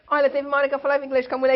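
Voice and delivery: giddy, rushed and amused; rushed laughing retelling. Real, not acted. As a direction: rattle it off, laughing at yourself. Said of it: "o português saiu".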